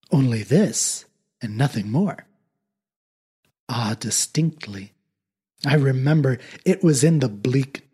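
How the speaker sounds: measured dramatic poetry recital; poem reading. A narrator's reading. Reading The Raven aloud to listeners, dramatic recital. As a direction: read it like a solemn old ballad.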